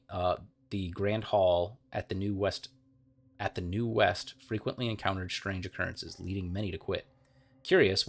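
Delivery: steady storytelling read of game lore; story narration. Acted. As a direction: tell it like a fireside tale. Reads game lore aloud.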